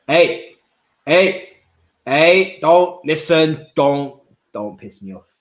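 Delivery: loud, slowed, agitated pleading; anxious fan outburst; tense warning. Real, not acted. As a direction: warn the world, worked up. Fearing injury.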